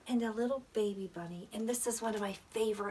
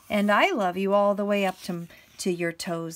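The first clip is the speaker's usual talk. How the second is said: big hare; 10 dB louder than usual. Acted. Big hare answering little hare's boast, lightly voiced big hare. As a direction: answer firmly as the bigger hare.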